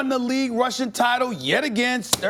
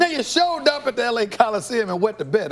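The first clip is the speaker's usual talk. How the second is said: gloating shout. Real, not acted. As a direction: yell it like rubbing it in. Gloating rant at Cowboys.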